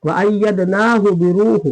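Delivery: अय्यदनाहु with long naa, then brief hu; slow chant, final हु of अय्यदनाहु kept short; quick short hu. Shown as a demonstration. Teacher modelling for students, अय्यदनाहु with short hu. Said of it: "जल्दी".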